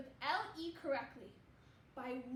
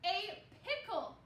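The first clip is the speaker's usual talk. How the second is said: slow; 3 semitones higher, slower than usual. Shown as a demonstration. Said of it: "let's listen in the word pickle".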